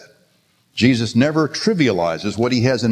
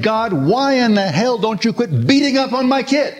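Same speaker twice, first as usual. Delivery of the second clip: retold yell at God; 12 semitones higher than usual. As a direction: hurl the question up at God, half laughing, half crying. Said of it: "I yelled at God".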